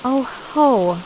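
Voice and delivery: narrated chuckle. A narrator's reading. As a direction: give a mild spoken chuckle as he catches his gaffe. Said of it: "he laughed".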